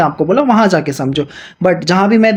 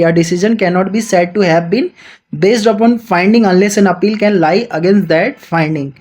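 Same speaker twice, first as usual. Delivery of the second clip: slow, deliberate reading of the statute; measured textbook read-aloud; slow legal reading; much slower than usual. Acted. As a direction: dictate each clause slowly to students. Reads the legal text aloud.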